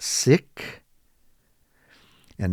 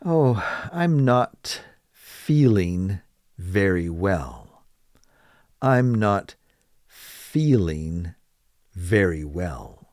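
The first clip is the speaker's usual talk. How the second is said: slow model phrase; 2 semitones lower, slower than usual. Shown as a demonstration. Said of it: "you can simply say".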